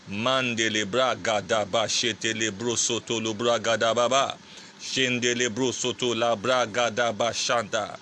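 fervent tongues prayer, steady rhythm; speaking in tongues. Real, not acted. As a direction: pray in tongues with fervour.

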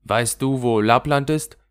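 a hint of a rough little robber girl showing off. Räubermädchen fragt das Rentier. (leicht gespieltes wildes Räubermädchen, prahlend)

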